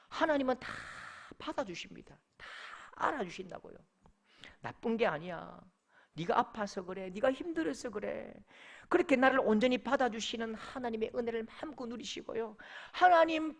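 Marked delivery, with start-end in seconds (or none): 4.6-8.3 soft, tender comforting; gentle reassurance. Acted. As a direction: soothe someone who is hurting. God comforting a hurting believer. (부드럽고 따뜻하게 달래는 말투)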